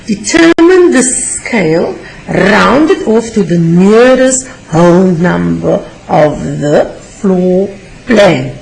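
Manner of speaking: loud reread. Shown as a demonstration. Teacher rereading the question to learners, loud. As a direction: read it out again to the whole class.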